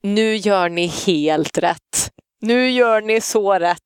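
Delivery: slow, drawn-out mock approval; imitated slow, emphatic endorsement; imitating backseat relative. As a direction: stretch each word slowly, quoting her from the back seat. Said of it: "sitter hon i baksätet så här och bara".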